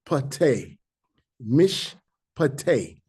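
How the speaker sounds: "Mish" closed, pause, "Pate" as pa-TE; teacherly breaks between "Mish" and "Pate"; syllable by syllable. Shown as a demonstration. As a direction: sound out "Mish" and "Pate" as separate pieces. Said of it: "you pick a new syllable up".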